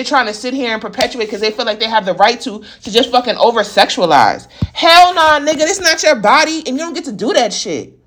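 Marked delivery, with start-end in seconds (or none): 4.7-8.0 angry. Real, not acted. Angry refusal.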